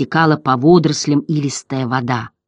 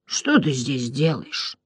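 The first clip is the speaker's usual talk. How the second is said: hoarse gurgling Morla; 3 dB quieter, slower than usual. A narrator's reading. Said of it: "хриплый, булькающий голос".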